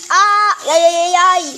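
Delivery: loud, high yelping cheers; excited squeals. Real, not acted. Squealing as the hot chicken cooks.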